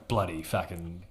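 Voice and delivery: Australian swearing as a trigger phrase; Australian accent. Shown as a demonstration. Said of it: "But Australian is".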